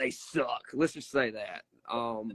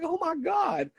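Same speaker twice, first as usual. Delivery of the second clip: replaying a shocked yell mid-match; retold shocked shout. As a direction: yell it out in disbelief at the opponent. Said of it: "I'm like".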